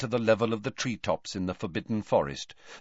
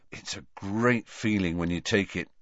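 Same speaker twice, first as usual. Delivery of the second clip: reminiscent. Acted. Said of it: "said Ron reminiscently".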